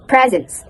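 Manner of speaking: "presence" with a buzzing Z, drawn out slowly; slow model of "presence" as PREZ-ens; Z in the middle. Shown as a demonstration. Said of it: "There's some Z in the middle".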